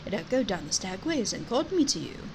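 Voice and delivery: lightly voiced old wise stag; stag character voice. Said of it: "and there's a stag".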